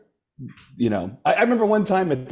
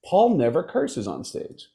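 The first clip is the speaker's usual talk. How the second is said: realizing; 12 semitones higher than usual. Retold or imitated. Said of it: "I thought".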